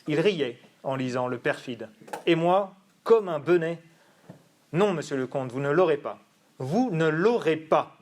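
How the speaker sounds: a measured theatrical reading, lightly acted; dramatic reading. Shown as a demonstration. Student reading Figaro's monologue, lightly dramatic. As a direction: read the monologue as a betrayed man brooding.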